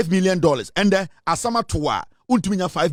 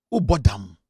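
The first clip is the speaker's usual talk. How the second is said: much lower, slower, heavy with scorn; scornful repeat; 9 semitones lower than usual. Retold or imitated. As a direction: drop the pitch and sneer "Who bought them?". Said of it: "You are faking an accent to please me".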